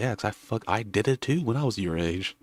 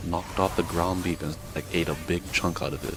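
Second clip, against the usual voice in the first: mock owner questioning; slower than usual. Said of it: "it's like".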